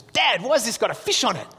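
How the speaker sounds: lightly voiced puzzled boy; young son. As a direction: imitate a kid's surprised question. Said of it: "And he goes".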